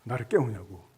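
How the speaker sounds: mock-annoyed telling-off; irritated guard. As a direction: imitate a grumpy security guard's scolding. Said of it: "짜증을 갑자기 내면서".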